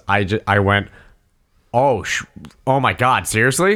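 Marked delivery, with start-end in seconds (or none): 1.7-3.7 retold genuine shock, pitch lifting; genuine surprise. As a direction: replay a moment of honest, dawning disbelief. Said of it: "completely genuine response".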